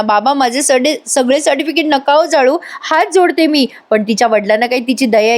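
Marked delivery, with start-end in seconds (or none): 0.0-3.7 mild pleading. Retold or imitated. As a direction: beg her father gently. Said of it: "Avni हात जोडत असते".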